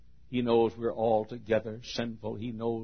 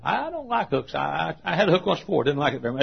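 higher-pitched balking fish; 5 semitones higher, faster than usual. Acted. Fish refusing the hook, whiny protest. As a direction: whine a reluctant objection. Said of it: "And it says".

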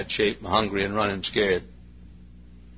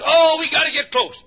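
high, loud mocking swoon; squeaky mock gush, much higher and louder; mock lovesick student; 9 dB louder than usual. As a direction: send up the gushing student with a high whine.

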